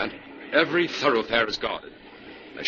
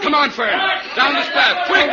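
loud, higher hurried call; urgent call; 6 dB louder than usual. Acted. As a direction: hurry her down the path. Hurrying Fern down the path.

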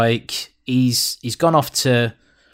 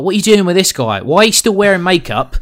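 raised, scolding king's voice; angry king; 4 semitones higher, 3 dB louder than usual. Retold or imitated. King confronting his son over his friend: mock angry tirade. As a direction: tear into the son as the furious king. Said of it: "he's like".

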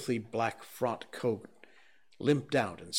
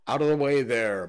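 bawling coachman; 2 semitones higher, 8 dB louder than usual. A narrator's reading. Coachman clearing the lane for his carriage, loud bawl. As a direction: bawl at the crowd. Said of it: "bawled a coachman".

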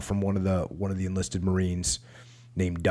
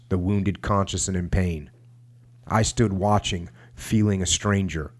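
measured, sober book reading; understated war memoir narration. A narrator's reading. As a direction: read the casualty report with deliberate pauses. Reads war memoir aloud.

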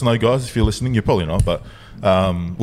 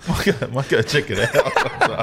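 laughing; 2 semitones higher than usual. Real, not acted. Mate joking about visiting the farmer, laughing. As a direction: joke squeezed out through giggles.

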